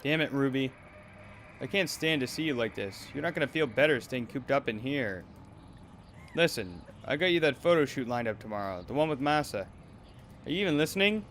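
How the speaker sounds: put-on harsh controlling manager scolding a girl; cold, bullying talent manager; abusive manager. Streamer voices the abusive manager.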